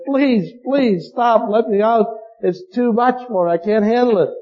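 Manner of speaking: a passenger's retold frantic plea to the driver. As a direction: beg to be let out, half-acted frantic. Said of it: "this fellow was absolutely frantic".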